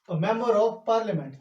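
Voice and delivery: drawn-out, careful teaching read; slow dictation. Shown as a demonstration. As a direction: say it slowly so students can write. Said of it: "ये मैं आपको समझाना चाह रहा हूं".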